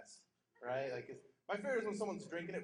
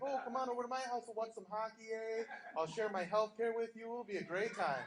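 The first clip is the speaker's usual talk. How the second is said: a light mock Canadian accent, friendly; a hint of Canadian accent, eh; 6 semitones higher than usual. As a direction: lightly play a nice Canadian. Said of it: "like a Canadian".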